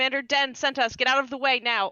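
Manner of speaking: loud, furious screaming in a put-on character voice. Yelling at gate guards while charging through, screaming in character. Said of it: "just screaming".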